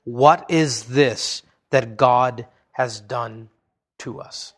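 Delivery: a slow, hushed, trembling question; trembling dismay. Acted. Brothers turning to one another in fear, hushed and trembling. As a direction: let it sink into a shaken near-whisper. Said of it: "turned trembling to one another, saying".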